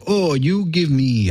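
slow put-on Mexican accent; a mock Mexican shopkeeper accent, drawn out. Haggling mask seller in mock Mexican accent. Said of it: "that's my Mexican accent".

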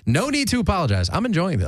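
laughing. Real, not acted. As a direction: laugh through the reassurance. Laughing reassurance, high.

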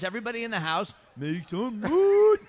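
re-enacted hype call, last word stretched; crowd-hype imitation. Contestant showing what the rules allowed, toned-down hype call. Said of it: "all you say is".

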